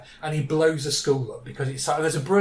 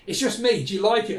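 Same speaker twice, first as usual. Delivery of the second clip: lightly voiced, higher little character; Toots; 5 semitones higher than usual. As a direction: ask hopefully in a slightly raised voice. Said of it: "And she says".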